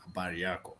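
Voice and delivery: softly tourist-accented Swahili. Shown as a demonstration. Tourist trying a Swahili greeting, tourist accent. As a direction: try it like a visiting tourist. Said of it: "with a tourist accent".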